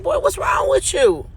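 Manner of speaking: high sharp voice, annoyed; irritated at fiance. Retold or imitated. Woman scolds staring fiance, high and irritated. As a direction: snap at him to back off.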